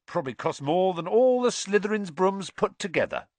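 high, gleeful boast; happily. A narrator's reading. Ron boasting about the costly broom, happily. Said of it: "said Ron happily".

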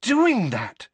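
slow, high, rattled plea; drawn-out, high-voiced complaint; weak protest. A narrator's reading. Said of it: "Hermione said weakly".

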